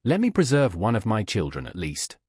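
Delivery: a touch of pleading grief in the cry; mild lament for a child; lightly voiced grieving mother; pathetic voice. A narrator's reading. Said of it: "in the most pathetic voice".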